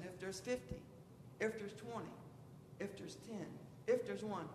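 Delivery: Abraham pleading softly with God, hushed; hushed bargaining. Acted. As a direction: drop to a hush as the numbers shrink.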